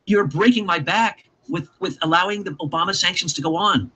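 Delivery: put-on slow, half-hearted Russian accent; poor Russian accent. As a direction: plead slowly in a badly done Russian accent. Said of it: "don't have a very good Russian accent".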